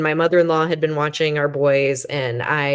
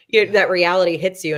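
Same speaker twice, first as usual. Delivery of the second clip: usual speaking voice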